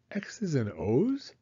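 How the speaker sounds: slow, whispered puzzled question; young turtle whispering, puzzled by a new phrase. Acted. Franklin puzzled by Beaver's words.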